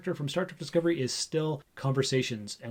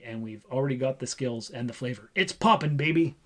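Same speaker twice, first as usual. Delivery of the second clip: lightly voiced Wesley Snipes bragging about his action movie; bad Wesley Snipes impression. Host quoting Wesley Snipes's hype to his co-host, mock boastful. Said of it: "my worst, uh, Wesley Snipes accent".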